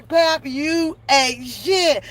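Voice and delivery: slow, even, deadpan reading; slow flat chat insult. Shown as a demonstration. Streamer repeating the viewer insult, slow and deadpan. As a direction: say it slowly, deadpan. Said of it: "Y'all can type".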